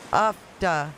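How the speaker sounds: "ufta" in two separated syllables; deliberate "ufta", falling at the end; trying out pronunciation. Shown as a demonstration. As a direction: sound out "uf-ta" carefully. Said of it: "am I saying it right?".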